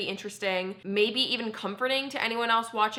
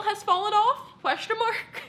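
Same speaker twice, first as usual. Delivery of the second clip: stunned disbelief; 12 semitones higher, slower than usual. Real, not acted. Shock at blood on towels.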